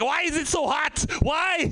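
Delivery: put-on German accent passing as Swedish; hammed-up German-sounding Swede; fake Swedish accent. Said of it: "That's a German accent pretending to be a Swedish accent".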